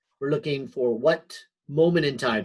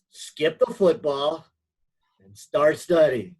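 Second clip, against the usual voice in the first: lively, higher-pitched mock pep talk; half-joking, half-serious; 5 semitones higher than usual. Shown as a demonstration. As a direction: give joking advice you partly mean. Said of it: "I say it jokingly, but I mean it kinda seriously".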